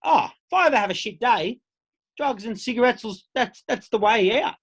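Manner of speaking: a hint of a naive child; naive kid's thought. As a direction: play it like an impressed youngster. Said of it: "you'd be like".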